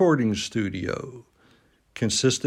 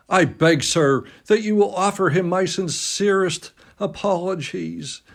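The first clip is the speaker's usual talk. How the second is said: stammering; 7 semitones higher than usual. A narrator's reading. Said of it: "stammered Hughie".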